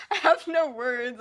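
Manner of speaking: slow, near-crying words; choked up. Real, not acted. Reader overwhelmed by a sad scene, near tears. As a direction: struggle to get it out through tears. Overcome by the book's sad turn.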